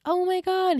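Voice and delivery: high oh my God; stunned gasp. Retold or imitated. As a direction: gasp it out in shock. Serena realises Aaron's father.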